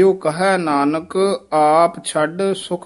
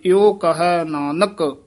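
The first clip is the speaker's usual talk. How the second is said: brief stop right after Nanak; short halt after Nanak; slower than usual. Shown as a demonstration. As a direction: pause on ਇਉ ਕਹੈ Nanak before going on. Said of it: "ਇੱਥੇ ਠਮਕ".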